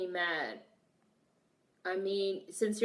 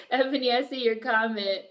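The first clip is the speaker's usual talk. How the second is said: laughing; 2 semitones higher, 4 dB louder than usual. Real, not acted. Still laughing.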